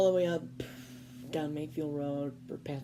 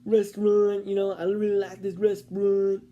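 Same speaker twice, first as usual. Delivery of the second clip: put-on high, loud, eager old man's voice; excited old man; 4 semitones higher, 8 dB louder than usual. Imitating the old man naming where he wants to go, high and loud. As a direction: blurt the street names out eagerly. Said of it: "he's like".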